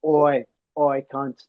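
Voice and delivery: lightly put-on Australian "oi"; Australian accent. Australian teammate hailing the rider before a race, Australian accent. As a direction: imitate an Australian calling out. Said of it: "very Australian way".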